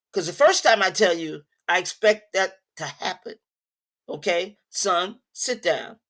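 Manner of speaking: stern. Shown as a demonstration. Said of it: "but I'm stern".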